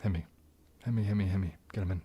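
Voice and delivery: usual speaking voice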